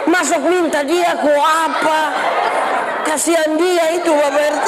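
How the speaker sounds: high, sustained sermon shout; full-force preaching. Real, not acted. Pastor exhorting the neighbourhood head about marriage, full-force preaching. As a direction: preach it out, stretching the phrases.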